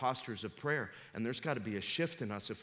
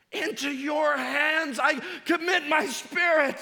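much higher, louder, slowed shout; scream; 13 dB louder, slower than usual. Retold or imitated. Preacher re-enacting Jesus's last words, screamed. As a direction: scream it as a dying cry of faith. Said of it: "heard him cry like that".

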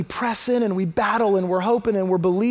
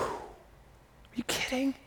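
hushed, drawn-out disbelief; amazed whisper; 16 dB quieter, much slower than usual. Real, not acted. Preacher reacting to the woman's humble answer, in an amazed whisper. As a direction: whisper it slowly, as if stunned.

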